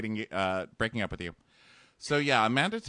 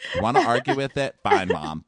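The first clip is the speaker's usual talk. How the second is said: louder, fast mock rant; mock outburst; 6 dB louder than usual. Host imitating Nick snapping at his mom, louder. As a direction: blurt it out fast and loud.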